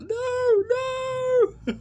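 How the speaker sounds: very high, loud mock shriek of "no"; hammed-up horror-victim scream; campy over-the-top screamed "no". Imitating her screaming at the ending, campy over the top. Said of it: "doing this very campy over the top".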